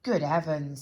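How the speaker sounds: loud, low gasped "Good heavens"; be appalled at the mess; horrified storybook gent; shocked exclamation. Acted. Shocked character.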